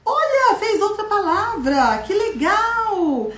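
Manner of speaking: high, laughing wow; teacher showing kids a new word, high and laughing; excited delight. Shown as a demonstration. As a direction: gasp with joy at the new word. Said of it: "delighted discovery for children".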